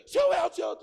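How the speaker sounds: high, loud calling of the name; urgent calling. Retold or imitated. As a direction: shout to wake him.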